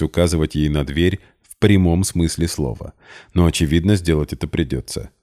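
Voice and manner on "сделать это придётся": usual speaking voice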